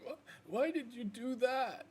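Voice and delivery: high, shocked yelp of a question; startled hurt wolf. Acted. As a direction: squeak it out, caught off guard. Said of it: "he startles and he whimpers and he's like".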